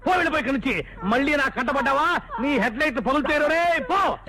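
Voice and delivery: shouted warning, then a sharp dismissal; angry threat. Acted. A bus owner furiously firing his careless driver. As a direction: yell him out of your sight.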